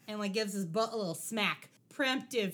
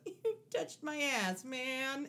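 whiny quote; 2 semitones higher, 3 dB quieter, slower than usual. Retold or imitated. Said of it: "he goes".

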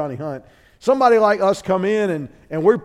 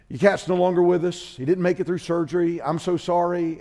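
gentle bad news; 4 dB quieter than usual. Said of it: "break it to me gently".

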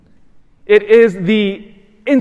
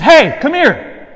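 slow, higher mock call like calling a dog; rude call; 9 semitones higher, 4 dB louder, slower than usual. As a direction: imitate a rude stranger summoning. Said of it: "calling me like a dog".

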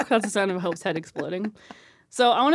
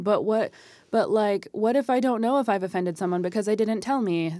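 worried questioner. Retold or imitated. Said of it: "my invisible audience saying".

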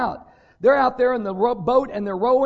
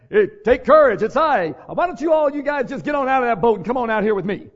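louder, breezy call out to the boat; mock invitation; 3 semitones higher, 9 dB louder than usual. Preacher imagines Jesus calling the disciples out, loud mock call. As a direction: call it out cheerfully, hammed up.

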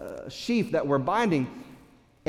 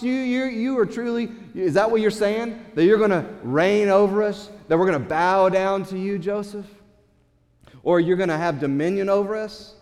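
mocking disbelief; 2 semitones higher than usual. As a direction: sneer at his claim. Brothers mocking Joseph.

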